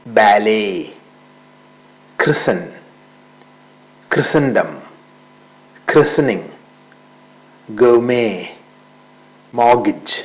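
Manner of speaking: ബാലേ said "ba-lay", with no t; ബാലേ, ക്രിസൻ, മോർഗേജ് with the t dropped; silent t. Shown as a demonstration. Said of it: "ടി silent ആണ്". (ടി ഉച്ചരിക്കാതെ)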